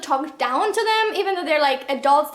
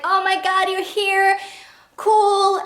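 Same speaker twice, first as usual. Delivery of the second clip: higher, louder, gushing delight; mock excited Katie; 5 semitones higher, 4 dB louder, slower than usual. Mocking Katie greeting an infected man, hammed-up cheerful. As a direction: play her as cheerfully oblivious. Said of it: "Katie's just like".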